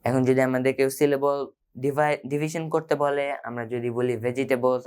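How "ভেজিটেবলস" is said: "ভেজিটেবলস" in four syllables, ve-ji-te-bols; wrong syllable division. Shown as a demonstration. Teacher warning about dividing syllables, wrong pronunciation. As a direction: pronounce every syllable, including "ji", in "ভেজিটেবলস". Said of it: "আমরা কিন্তু রংটা পাবো".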